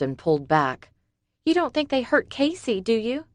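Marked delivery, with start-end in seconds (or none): 1.4-3.2 higher, worried question; Summer's voice. A narrator's reading. Summer fearing for Casey, worried and high. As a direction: dread creeping in.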